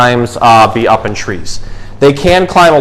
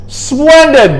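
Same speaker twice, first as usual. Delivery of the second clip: booming Santa; 13 semitones higher than usual. A narrator's reading. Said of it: "boomed Santa".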